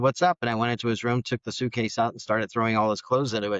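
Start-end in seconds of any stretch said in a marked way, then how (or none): 0.0-0.4 put-on defiant teen. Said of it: "he said".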